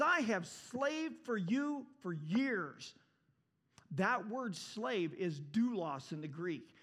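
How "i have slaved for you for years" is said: high, drawn-out grievance; slow, indignant protest; aggrieved complaint. Acted. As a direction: stretch it out slowly as a resentful son. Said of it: "He says".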